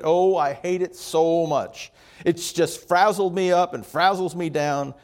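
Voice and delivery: lightly imitated whiner; whining. Customer moans to grandmother about summer heat, mildly whining. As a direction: complain with a touch of a whine. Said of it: "this sort of distinct whine in his voice".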